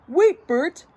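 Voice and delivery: high, loud interruption; urgent Ernie. A narrator's reading. Ernie grabs Bert's arm, urgent and high. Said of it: "he said".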